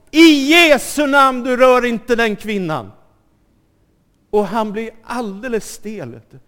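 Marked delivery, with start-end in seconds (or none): 0.1-2.9 loud, high shouted rebuke at the attacker; shouted command. Retold or imitated. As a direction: yell it to stop the man with the bat. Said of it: "så ropar hon".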